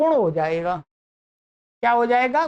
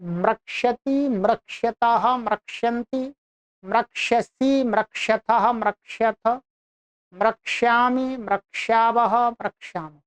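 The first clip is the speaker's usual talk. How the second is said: recitation drill; slower than usual. Shown as a demonstration. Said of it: "चलिए उच्चारण करा देता हूँ".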